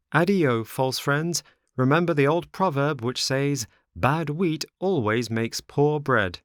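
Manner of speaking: high, loud, preachy rebuff; high-pitched moralizing farewell; scornful Pinocchio. A narrator's reading. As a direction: scold them in a high puppet voice.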